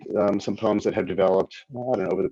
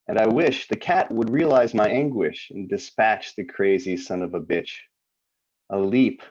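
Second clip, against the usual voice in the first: deliberate recital, each wish lifted then falling; poetry reading; 3 semitones higher than usual. Acted. Poet reading a list of wishes to listeners, poetry reading. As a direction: declaim the verse, pausing between images. Reads own poem aloud.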